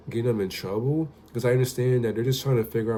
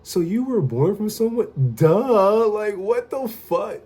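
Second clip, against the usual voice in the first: put-on child's voice; 11 semitones higher, 5 dB louder, slower than usual. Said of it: "And she was just like".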